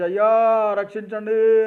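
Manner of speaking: loud, high mock yell for rescue; retold cry for help. A crash victim screaming to passersby for rescue, high loud yell. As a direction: call out for help like an accident victim. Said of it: "అని గట్టిగా అరిచి".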